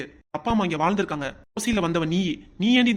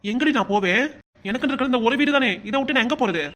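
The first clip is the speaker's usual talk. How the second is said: anguished shout; 5 semitones higher, 4 dB louder than usual. Acted. Husband's anguished protest.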